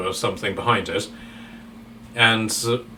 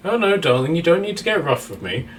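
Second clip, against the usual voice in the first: Frank's voice; 6 semitones higher than usual. Acted. Frank voiced, hands bound.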